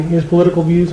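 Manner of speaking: said through a burp; a burp breaks the words. Real, not acted. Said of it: "I'm burping like crazy".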